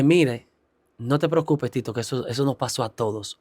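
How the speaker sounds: gently calm a nervous first-time preacher; retold reassurance. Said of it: "Ella me motivó".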